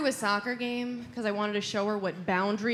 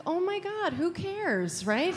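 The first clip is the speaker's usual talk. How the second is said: much higher, exasperated squeal; mock exasperated; 9 semitones higher, slower than usual. Son reacts to mom bragging, high and exasperated. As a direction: squeak it out in disbelief. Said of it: "I was like".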